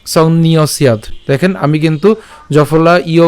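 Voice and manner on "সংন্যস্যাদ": "সংন্যস্যাদ" run together, s gliding into ya; joined pronunciation. Shown as a demonstration. Teacher shows "সংন্যস্যাদ" said together, joined up. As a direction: link "সংন্যস্যাদ" with no break before ya. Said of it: "একসাথে উচ্চারণ করলে".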